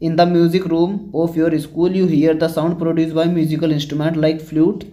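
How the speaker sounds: reading the English text out word by word, slowly; slow textbook reading. Acted. Teacher reading the book question to students, slow and deliberate. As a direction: spell out the textbook sentence slowly for the class.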